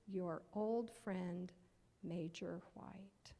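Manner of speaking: unhurried tender letter reading; letter read aloud. Acted. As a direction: read it gently and slowly. Reads Major White's letter.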